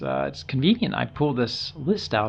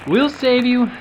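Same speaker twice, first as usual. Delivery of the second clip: high loud rallying cry; urgent call; 9 semitones higher, 3 dB louder than usual. Pretend. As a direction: shout encouragement to the rescued. Rescue call.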